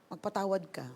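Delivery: quiet command. Retold or imitated. Acting God's quiet repeated command.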